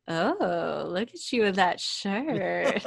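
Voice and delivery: a lightly put-on voice, laughing through it; a patient flirts with Doctor Drew, lightly voiced; imitating a flirty patient. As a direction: tease him about the shirt. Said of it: "and he goes".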